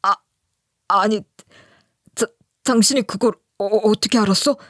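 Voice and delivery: halting, tripping over the first words; stammering. Retold or imitated. Husband caught out, stammering to his wife. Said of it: "말을 더듬더라고요".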